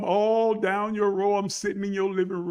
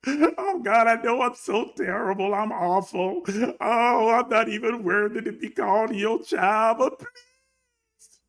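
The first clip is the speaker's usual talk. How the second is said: mock pleading prayer; 2 semitones higher than usual. Churchgoer in the pew begging the Lord, mock wailing. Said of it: "That's exactly how you sound Sunday after Sunday".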